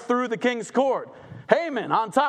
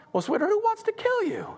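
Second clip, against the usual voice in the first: tender king; 13 semitones higher than usual. Acted. King asks Esther.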